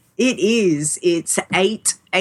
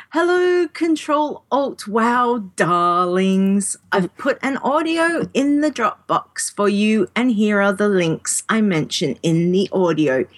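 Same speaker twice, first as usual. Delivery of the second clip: Juno voice. Retold or imitated. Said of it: "a Juno voice".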